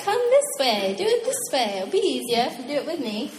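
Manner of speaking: lightly voiced God inviting; coaxing God. God coaxing his stubborn people, lightly voiced. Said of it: "so God's like".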